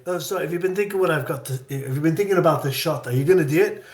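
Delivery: director's Scottish lilt, imitated; imitated Scots accent; Scottish brogue. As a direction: pitch an idea in a Scottish brogue. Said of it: "he has this great brogue".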